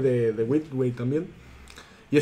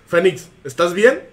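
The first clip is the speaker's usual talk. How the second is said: teacher's question; slower than usual. Retold or imitated. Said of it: "le dice".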